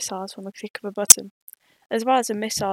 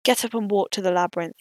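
flat robot voice; robotic voice; 3 dB louder than usual. Acted. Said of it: "in an extremely robotic voice".

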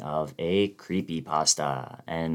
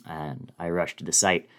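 measured, grave first-person story narration; spooky dramatic reading; faster than usual. A narrator's reading. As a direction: read it like a ghost story told late at night.

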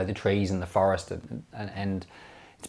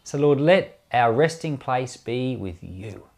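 prayer. Real, not acted. Closing prayer after sermon.

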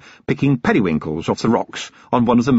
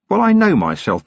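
lightly voiced weary copper, cold threat; a hint of a hard-bitten watchman; Vimes, grim and controlled; 10 semitones higher than usual. Vimes interrogating.

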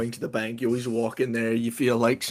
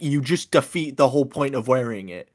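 exasperated; 4 dB louder than usual. Retold or imitated. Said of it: "and I'm like".

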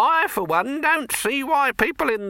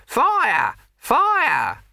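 shouting fire; 13 semitones higher, 5 dB louder than usual. Acted. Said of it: "You runs out shouting".

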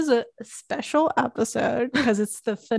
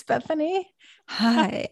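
late night radio voice; 3 semitones higher, slower than usual. Pretend. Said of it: "like, late night radio voice".

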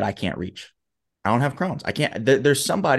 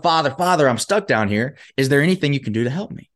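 mock shout for help; 4 semitones higher than usual. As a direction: act out calling up to a passerby. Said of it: "So he shouts up".

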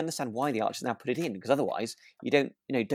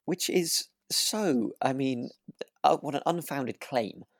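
mock indignation; 5 semitones higher, slower than usual. Mock outrage at viewer comment.

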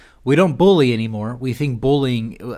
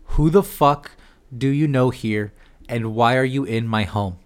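blunt angry version. Retold or imitated. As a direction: demand it like a furious homeowner. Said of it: "it was a valid question".

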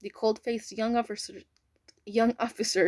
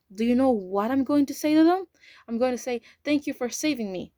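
frantic hope; 4 semitones higher, 5 dB louder than usual. Acted.

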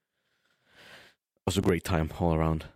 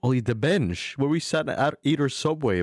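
higher, urgent reminding; excited insisting; 7 semitones higher than usual. Real, not acted. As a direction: come on, you remember this. Insisting friend remember the bench.

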